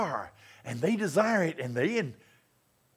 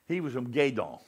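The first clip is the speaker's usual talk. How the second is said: put-on deep South Louisiana accent. Preacher imitates his Louisiana roommate, Southern accent. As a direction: lightly mimic a Gueydan, Louisiana accent. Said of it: "He talked like that".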